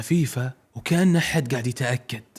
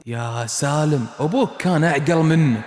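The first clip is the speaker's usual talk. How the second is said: calm quiet man. Acted. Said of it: "صوت رجال عادي وهادي جدًا".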